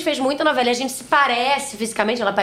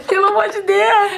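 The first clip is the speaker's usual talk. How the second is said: mock whine; 10 semitones higher, 4 dB louder than usual. Mother woken by child.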